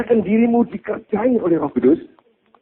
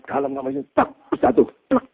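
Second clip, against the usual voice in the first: mock prayer; 4 semitones higher, 4 dB quieter, faster than usual. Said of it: "Doa gini ya".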